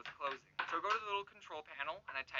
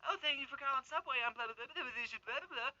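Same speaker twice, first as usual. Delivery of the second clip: higher, mocking phone greeting; stupid employee voice; 6 semitones higher than usual. Clerk answering the Subway phone, mocking stupid voice. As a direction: ham up a bored Subway greeting. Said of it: "with their stupid voice".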